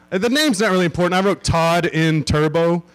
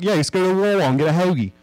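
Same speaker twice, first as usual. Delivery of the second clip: fast, mock Philadelphia accent; light Philadelphia accent; Philly accent; 3 semitones higher, faster than usual. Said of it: "That's a Philly accent".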